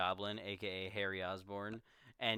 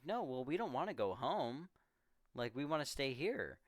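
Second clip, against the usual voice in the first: lightly whiny-swooping protest, pitched up; mock kids' yell; 4 semitones higher than usual. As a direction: imitate kids protesting, without really yelling. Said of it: "the kids all, like, yell".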